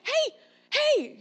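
high, loud call after someone walking off. Retold or imitated. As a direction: holler to get their attention. Calling after son walking past.

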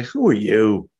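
mildly hostile, leaning on YOU; hostile questioning. Acted. Hostile crowd asking Jesus who he is, mild hatred. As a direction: ask with a touch of contempt. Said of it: "showing their hatred by the way they're asking".

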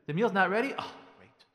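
loud question sinking to a muttered jab; mock-sarcastic husband's reaction. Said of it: "Like that sarcasm".

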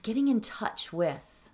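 calm, measured meditation voice; unhurried phrases with long pauses; settled, quiet teaching of a mantra; guided meditation. Acted.

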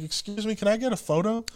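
lightly voiced kid asking a favor; imitating a kid. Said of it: "this kid walks up, he's like".

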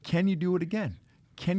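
high, fired-up coaching; halftime pep speech. Acted. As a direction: push them like a coach at halftime. Coach firing up players.

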